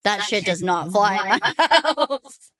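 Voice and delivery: stern firm parent, laughing; firm mom. Retold or imitated. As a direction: lay down the law as a mom. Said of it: "I was like".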